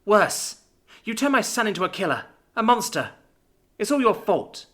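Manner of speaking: mother's wailing cry of blame. A narrator's reading. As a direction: wail it like a spirit from the shadows. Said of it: "like a wailing spirit".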